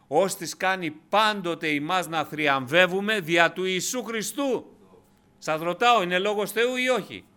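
ψηλή, δυνατή φωνή γεμάτη πάθος; ρωτάει τους αδελφούς με ένταση; κήρυγμα στο αποκορύφωμα. Acted. Preacher at full force. (κήρυγμα με έξαρση, πολύ ψηλά και δυνατά)

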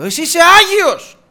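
loud, high, emphatic exclamation; awed cry. Acted. Peter kneeling before the Lord, crying out in awe. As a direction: burst out in awe.

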